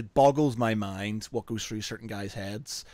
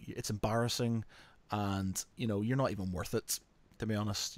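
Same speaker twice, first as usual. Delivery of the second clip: quiet put-down; 3 semitones lower, 7 dB quieter than usual. Retold or imitated. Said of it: "just go".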